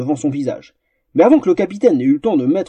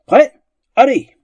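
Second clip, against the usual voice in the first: referee's call; 9 semitones higher, 6 dB louder than usual. Acted. Captain starts the duel.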